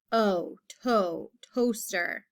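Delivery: "toaster" built up from O, to; long O demonstration. Shown as a demonstration. Teacher sounds out the first syllable for pupils, long O stressed. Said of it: "long O sound in the first syllable".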